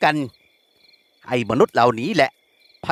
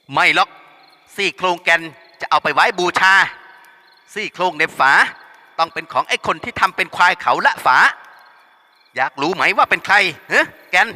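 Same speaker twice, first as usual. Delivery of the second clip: higher, mocking menace; taunting thug; 4 semitones higher than usual. Henchman provoking Yam through Kaen, lightly mocking. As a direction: needle her with a sneer.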